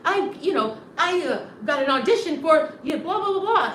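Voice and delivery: mock excited brag. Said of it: "they're like".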